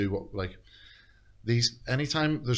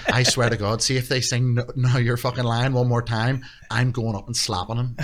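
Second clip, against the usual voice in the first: loud, higher mock-furious mother; retold angry rant; 3 semitones higher, 6 dB louder than usual. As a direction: imitate an outraged mother making threats, loudly. Retelling his furious mother's threats.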